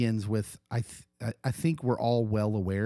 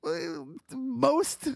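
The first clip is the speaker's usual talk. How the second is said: sarcastic; slower than usual. Real, not acted. Sarcastic high pitched disbelief.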